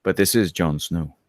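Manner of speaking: slow, low Yorkshire accent attempt; Jon Snow. Shown as a demonstration. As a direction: try a measured Northern English accent. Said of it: "I should sound like Jon Snow".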